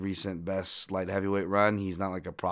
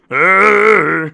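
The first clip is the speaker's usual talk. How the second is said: excited yeah; 10 semitones higher, 17 dB louder than usual. Real, not acted. After cheering.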